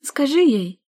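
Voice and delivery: high, loud wailing plea; spoiled sister wailing to father; wailing demand. Acted. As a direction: scream it at father. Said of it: "завопила она".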